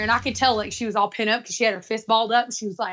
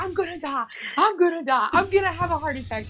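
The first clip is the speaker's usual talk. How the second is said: mimicked freak-out; 4 semitones higher than usual. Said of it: "starts freaking out".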